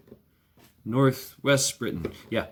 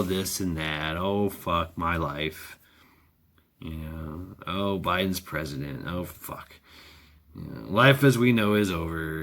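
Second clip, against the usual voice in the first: mock self-pity; 5 semitones lower, 3 dB quieter than usual. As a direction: whine it out like a sorry sack. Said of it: "you just feel all down in the dumps".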